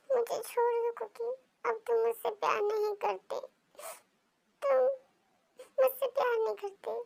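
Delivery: acted crying, pleading through mild tears; tearful. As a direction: push him away in a high, wounded voice. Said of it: "पैर पकड़ते हुए रोने लगी".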